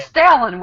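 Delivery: Stalin with a flat "a" as in "pal"; teasing mispronunciation. Retold or imitated. Co-host teasing about name pronunciation, mispronounced Stalin. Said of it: "I'm gonna say it that way".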